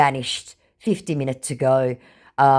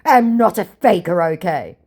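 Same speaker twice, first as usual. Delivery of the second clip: scammer voice; 3 semitones higher, 6 dB louder than usual. Retold or imitated. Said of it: "To which I sent laughing emojis".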